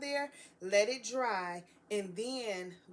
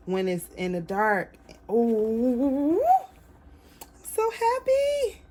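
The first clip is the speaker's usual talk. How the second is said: happy tears; 3 semitones higher, 13 dB louder, slower than usual. Real, not acted. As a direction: cry out with joy, almost in tears. Overjoyed reveal, laughing and crying.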